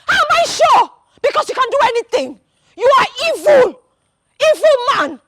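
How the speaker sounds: indignant wife lashing out; angry accusation. Acted. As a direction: hurl accusations in a rising pitch. Angry quarrel accusing Okwego.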